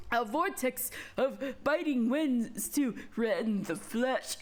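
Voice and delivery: lightly voiced old mage, casting; hoarse old man. Old mage conjuring biting winds, incanting. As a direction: incant like an ageing wizard. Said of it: "sound like a different kind of old man".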